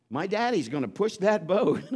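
put-on high, loud kid's boast; proud boy. Boy tells the onlookers his dad will push the boat, proud and loud. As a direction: brag like a seven-year-old about his dad. Boy bragging, voiced in story.

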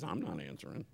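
barely audible aside; very quiet. Real, not acted. Preacher teasing a silent congregation, very quiet. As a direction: drop almost to nothing. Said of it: "listen how quiet it is".

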